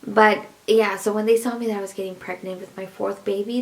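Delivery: normal talking voice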